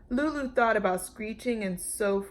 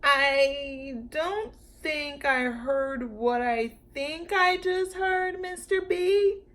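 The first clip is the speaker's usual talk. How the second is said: much higher, slow, squeaky disbelief; squeaky amazed; 7 semitones higher, slower than usual. A narrator's reading. Lulu stunned by the Brontosaurus, squeaky and slow. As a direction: squeak it out in shock. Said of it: "in a squeaky, amazed kind of voice".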